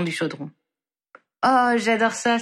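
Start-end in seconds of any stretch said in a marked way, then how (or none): 1.4-2.4 a bright, delighted oh, lightly acted; delighted exclamation. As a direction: exclaim with a treat in sight. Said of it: "s'exclama Ginny". (exclamation ravie, légèrement jouée)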